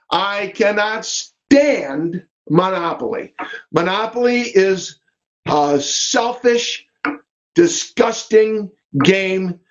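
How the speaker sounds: slow, deliberate mock disgust; emphatic loathing. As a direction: drag out each word of distaste. Mock rant about hating Monopoly.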